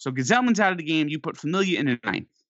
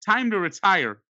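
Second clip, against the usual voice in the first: retold heckle; 5 semitones higher than usual. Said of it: "I yell out to Jose Reyes".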